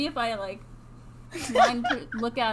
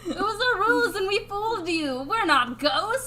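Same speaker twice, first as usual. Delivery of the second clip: laughing; 5 semitones higher than usual. Pretend. Ghost reveal joke.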